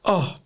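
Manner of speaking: small, restrained "oh"; a tiny choked-up gasp; demonstrated gentle weep. Shown as a demonstration. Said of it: "I went like that".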